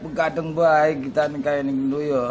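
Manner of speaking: weak groaning. Acted.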